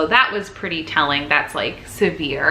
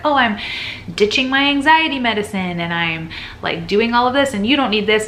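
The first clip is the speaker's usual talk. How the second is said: mocking influencer voice; 4 semitones higher than usual. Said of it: "I've seen a lot of people being like".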